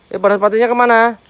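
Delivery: calling out. Real, not acted. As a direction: call out to find it. Searching for fireball spirit.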